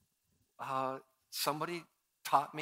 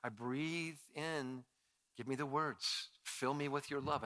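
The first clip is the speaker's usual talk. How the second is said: quiet prayer; 7 dB quieter than usual. Retold or imitated. Speaker praying for words before sharing, softly. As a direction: breathe out a humble plea. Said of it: "And I just".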